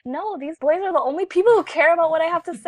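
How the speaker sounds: retold quote. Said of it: "And I said".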